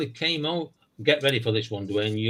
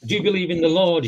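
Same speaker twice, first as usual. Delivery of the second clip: preacher voice; 5 semitones higher, 5 dB louder than usual. Retold or imitated. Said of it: "And he says".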